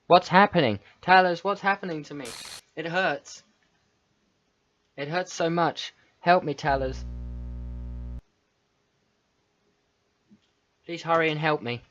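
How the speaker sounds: mildly pained Monica. Acted. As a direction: read her cries for help, lightly acted. Reads Monica's distressed lines.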